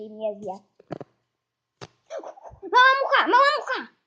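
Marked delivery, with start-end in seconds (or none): 2.6-3.9 high, loud repeated call; excited squeal. Real, not acted. Gamer spots a small fly, excited squeal. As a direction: squeal it twice, eager for prey.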